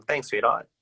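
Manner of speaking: breezy, offhand "Thanks, sweetheart." tossed off with a rise; everyday Aussie casual thanks. Shown as a demonstration. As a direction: say "sweetheart" like it's nothing. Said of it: "it's very casual".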